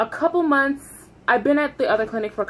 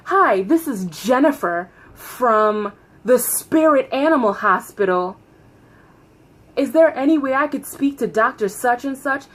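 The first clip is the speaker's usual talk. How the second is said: polite phone voice. Retold or imitated. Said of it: "I'm gonna say my name".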